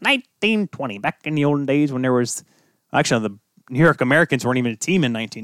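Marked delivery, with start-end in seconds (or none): 0.0-2.4 mock incredulous reaction. Host mimics everyone hearing the year, mock incredulous. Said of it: "everyone's like".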